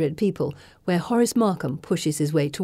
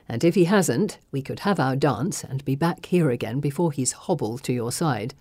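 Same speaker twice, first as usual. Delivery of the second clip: a hint of a lower, teasing gentleman; lightly voiced young gentleman; 3 semitones lower than usual.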